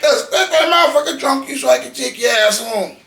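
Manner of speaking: hamming up his younger hothead self; mock shout. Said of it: "But I used to be like".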